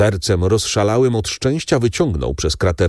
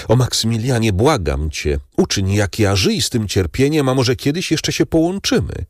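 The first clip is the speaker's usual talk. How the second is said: begging; 4 semitones higher than usual. Acted. Valentin begs Maksymilian.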